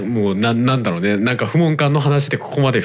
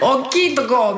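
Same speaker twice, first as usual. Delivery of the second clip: put-on much higher, naive child voice; childlike voice; 12 semitones higher, slower than usual. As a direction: say it like a wide-eyed kid. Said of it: "みたいな、そういう感じ？".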